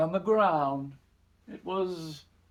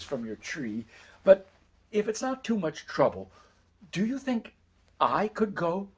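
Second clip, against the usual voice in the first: lightly voiced earnest boy, hesitant; a gentle plea with small pauses and lifts in pitch; timid youngest son; 3 semitones higher than usual. Youngest son asking mother for three peaches, mildly pleading.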